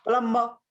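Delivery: प्लम्ब with the B silent; correct pronunciation. Shown as a demonstration. Teacher correcting the class on plumber, प्लम्ब with silent B. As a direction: say प्लम्ब as plum-ma, no B. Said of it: "बी भन्दैन".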